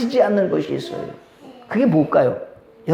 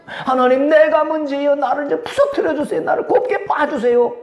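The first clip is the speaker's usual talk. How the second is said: higher-pitched pleading prayer; acted repentant prayer; 5 semitones higher than usual. Preacher models praying in worship to be broken, higher pleading voice. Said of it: "예배 드리면서".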